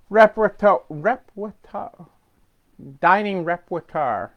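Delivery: stumbling over "repertoire"; real tongue-tied fumbling of "repertoire". Real, not acted. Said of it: "I'm all tongue-tied".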